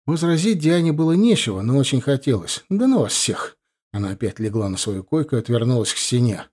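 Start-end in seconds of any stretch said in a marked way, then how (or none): 2.7-3.6 high, fed-up cry; exasperated outburst. Acted. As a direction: throw the words at them all. Daughter storms off. (возмущённый выкрик)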